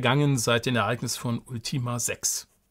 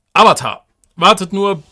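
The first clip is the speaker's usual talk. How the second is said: louder, higher, eager outburst; excited exclamation; 6 semitones higher, 11 dB louder than usual. Acted. Old companion eager to tell the others, excited. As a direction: burst out with eager delight.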